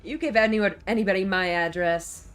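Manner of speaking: indignant outburst; loud. Acted. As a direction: hostess voice, loud and outraged. Voicing hostess character, angry.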